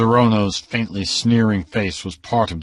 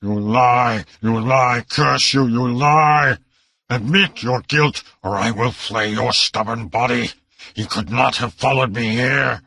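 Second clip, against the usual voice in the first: mild mock shriek, a little higher; a lightly voiced raving uncle; shrieking madman; 4 semitones higher than usual. A narrator's reading.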